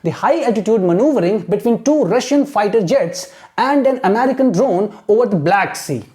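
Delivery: very slow, careful reading aloud; teacher reading for imitation; slow model reading. Shown as a demonstration. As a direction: read slowly for students to copy. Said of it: "Exactly you have to imitate".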